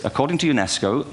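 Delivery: usual speaking voice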